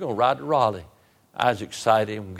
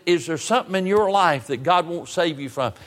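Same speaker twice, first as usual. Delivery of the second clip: retold exasperated question, higher pitched; half mad; 6 semitones higher, 3 dB louder than usual. Preacher pressing the young man about his life, exasperated. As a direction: press him with raised, frustrated pitch. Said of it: "I walked in about half mad".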